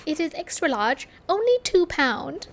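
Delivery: a put-on British shop-girl accent, a bit high; mock British accent. S1 mocking the Primark cashier's British accent. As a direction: imitate the British cashier, badly. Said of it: "That was a terrible accent".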